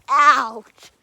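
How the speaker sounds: loud pained exclamation; real pain. Real, not acted. Explorer just whacked by a loose thing, pained cry. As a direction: react sharply to the knock.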